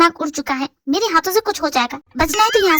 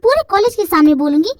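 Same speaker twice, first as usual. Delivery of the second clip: defiant outburst; 4 dB louder than usual. Acted. Defiantly telling off the loser.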